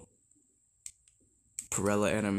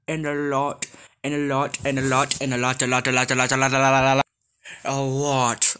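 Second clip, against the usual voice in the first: each a lot louder, rising to a near shout; building repetition; 4 dB louder, faster than usual. Acted. Listing the creator's monsters, repeating louder and louder. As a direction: pile them up louder and louder.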